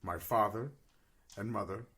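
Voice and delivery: low, measured tale-telling in character; solemn war-orphan adventurer. Acted. Player tells character's backstory.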